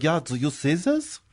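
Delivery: lightly put-on German accent; mock German accent. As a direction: imitate a puzzled German. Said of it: "The Germans are like".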